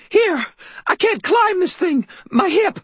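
put-on high, loud old woman's voice; a frail old lady straining; old landlady. Elderly landlady hands Harry a brick, high and urgent.

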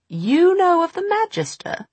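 high, sharp suspicious crone; startled witch voice. Acted. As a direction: demand it, suddenly wary. Mrs Dark surprised.

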